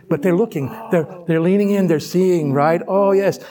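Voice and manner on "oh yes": ladies chatting. Pretend. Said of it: "like ladies have a conversation".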